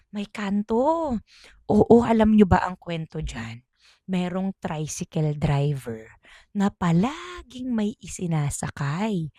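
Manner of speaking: slow and soft, spooky; hushed ghost-story telling. Retold or imitated. Elders telling the grandchildren of the ghost rider, slow hushed. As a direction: draw them in slowly and quietly.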